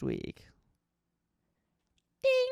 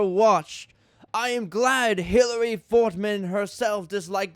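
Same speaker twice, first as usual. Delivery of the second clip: mock-earnest read of a ranting fan review; a dramatic reading of someone else's angry episode review. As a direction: perform it straight-faced, like an outraged reviewer. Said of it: "A dramatic reading of a top ten worst Thomas".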